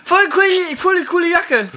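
high-pitched, loud, mock-casual compliment; casual flirty compliment. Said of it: "oder man sagt einfach ganz lösig".

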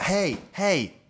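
high-pitched shout without full volume; retold calling out. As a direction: imitate a man calling for attention. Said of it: "joka huutaa".

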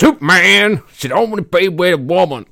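loud, high cartoon Southern accent; outraged mock-Southern complaint. Retelling the Superman story, hammed-up indignant Southern accent. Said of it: "I always go with the Southern accent".

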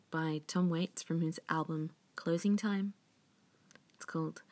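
sultry whisper; breathy seductive whisper; femme fatale. Acted.

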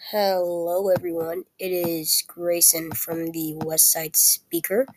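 weak sick voice; tired, slow sick voice. Real, not acted. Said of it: "If my voice sounds, like, weak or unclear".

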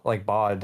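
bud said as bod, the vowel almost like O. Shown as a demonstration. Friend demonstrating Canadian bud, bod almost an O. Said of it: "it's almost like an O".

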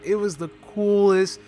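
ordinary delivery

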